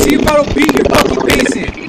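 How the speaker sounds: repeated threat turning into a real shout. Real, not acted. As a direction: push it up into a yell.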